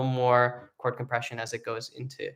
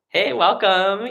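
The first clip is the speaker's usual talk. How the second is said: raised, louder, drawn-out hello; welcoming greeting; 7 semitones higher, 7 dB louder, slower than usual. Real, not acted. Teacher greets someone joining the session, welcoming greeting. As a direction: greet a newcomer brightly, slowly.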